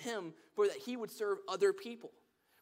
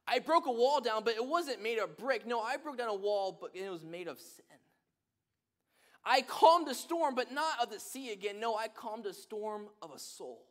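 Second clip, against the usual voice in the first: proclaiming God; 4 semitones higher, 6 dB louder than usual. Retold or imitated. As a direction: proclaim it like God answering the challenge. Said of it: "God said".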